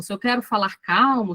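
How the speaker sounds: demonstration of a calm, eased-off tone; calm demo. Shown as a demonstration. Teacher showing she can control her voice, calm demo. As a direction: ease back and settle on "calmo". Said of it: "eu controlo um pouco o tom".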